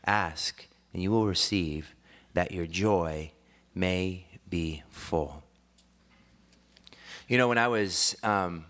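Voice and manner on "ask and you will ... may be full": slow, low, measured recitation; deliberate, lower-pitched scripture reading. Acted. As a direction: read the verse aloud solemnly, spacing each phrase.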